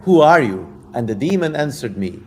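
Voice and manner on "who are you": a hint of a commanding king; King Solomon voice. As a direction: demand it like a king. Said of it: "I'm just getting into character now".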